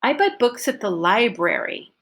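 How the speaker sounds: focus word read with stress; reading the example. Shown as a demonstration. Teacher models the statement for students, stressed focus word. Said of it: "here's how I would read these".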